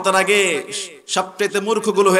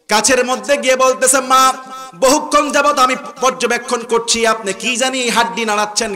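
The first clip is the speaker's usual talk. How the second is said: preaching storytelling; 7 semitones higher, 4 dB louder than usual. Retold or imitated.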